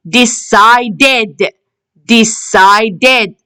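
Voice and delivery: "decided" in separate syllables, ending ed; teacher's model "decided", last syllable sounded ed. Shown as a demonstration. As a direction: say "decided" slowly with a full final ed. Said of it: "We can hear the ed sound".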